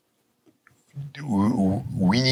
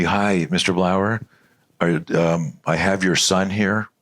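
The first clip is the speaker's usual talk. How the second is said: slow, hesitant nurse on a call; lightly voiced nurse, drawn out; mock school nurse; slower than usual. School nurse phoning a parent about his son, mock hesitant. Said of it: "the nurse at the hospital".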